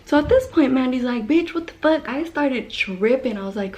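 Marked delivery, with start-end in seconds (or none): 1.3-2.1 higher pitched, startled retold outburst; mock shocked outburst. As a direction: play the friend's shocked cry. Friend reacts shocked, quoted.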